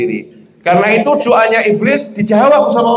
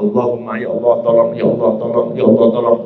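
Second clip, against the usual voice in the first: desperate plea; 7 semitones lower, faster than usual. Acted.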